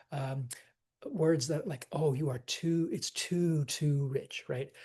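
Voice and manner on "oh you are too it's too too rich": each "too" leaned on; stress on TOO. Shown as a demonstration. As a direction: hit "too" as the key word. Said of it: "those words will get stressed".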